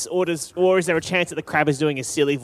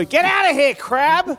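shouting; 10 semitones higher, 3 dB louder, slower than usual. Acted. Shouting at attacking crab.

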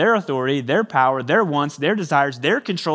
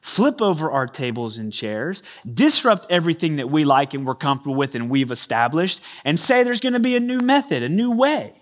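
affronted leaders. Retold or imitated. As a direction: build from disbelief to outrage. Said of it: "another way we ask it".

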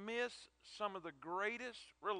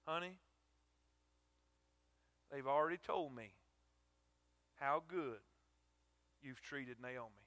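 tender praise. Acted. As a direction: speak to her with gentle gratitude. Boaz praises Ruth tenderly.

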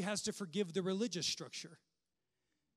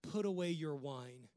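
judgmental scolding. Retold or imitated. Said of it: "he had the audacity to say".

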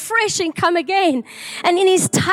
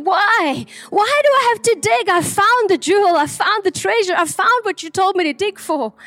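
acted bewildered protest, pitched up; 2 semitones higher than usual. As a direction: plead his case in puzzled disbelief. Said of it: "he was bewildered".

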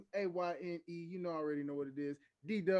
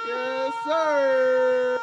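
hype shout; 10 semitones higher, 21 dB louder than usual. Acted. Hype exclamation.

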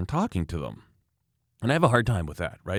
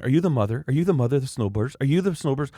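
higher, insistent mock questioning; interrogating mother; 5 semitones higher, faster than usual. Angry mother skis up to the wife, insistent. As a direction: mimic her pestering questions.

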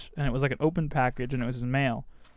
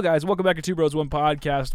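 announcer voice; 2 semitones higher than usual. Acted. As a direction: boom it out like a show announcer. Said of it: "I went into my announcer voice there for a second".

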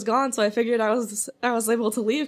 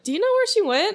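imitating head chef; 11 semitones higher than usual. Head chef asking about coworker.

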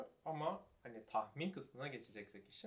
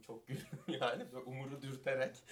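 after laughing hard; 3 semitones higher than usual. Real, not acted. Recalling laughing at the screening.

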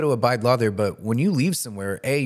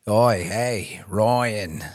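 lightly imitated Australian accent; playful mock-Australian call; much slower than usual. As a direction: copy an Australian mate's greeting. Mimicking the Australian friend's accent.

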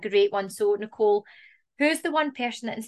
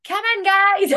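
mock English rep accent, pitched higher and louder; 10 semitones higher, 5 dB louder, slower than usual. Mimicking English reps calling tourists into a pub, in English accent. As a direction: put on a cheery English holiday-rep accent. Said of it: "reps sounded so much better with an English accent".

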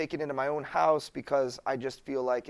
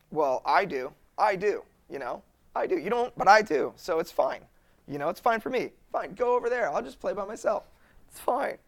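mock-hurt, higher "it's fine, I'll play alone"; telling his wife he doesn't mind, sulky and higher; passive-aggressive "it's fine"; 4 semitones higher than usual. Retold passive-aggressive reply to wife.

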